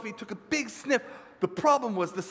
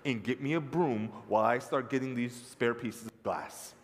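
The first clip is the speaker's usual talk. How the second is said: lower, measured request; mother calming herself; 5 semitones lower than usual. Acted. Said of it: "Takes a deep breath and says".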